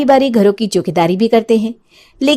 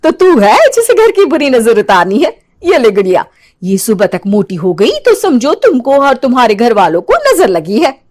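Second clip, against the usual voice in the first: sly witch. Acted. Witch gives doll.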